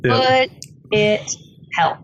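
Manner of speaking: lightly imitated unruffled deadpan; measured comeback with a pause after the first word; calm spy. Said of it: "he is the calmest man".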